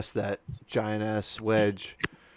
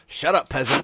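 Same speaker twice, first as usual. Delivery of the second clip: snobby aristocrat; 5 semitones higher, 5 dB louder than usual. Pretend. Mock snobby insult.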